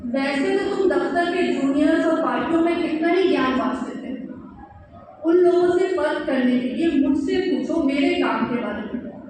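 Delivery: lilting recital in phrased lines; poetry reading. Acted. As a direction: recite your poem to listeners, phrase by phrase. Reads own poem aloud. (कविता पाठ, लय के साथ)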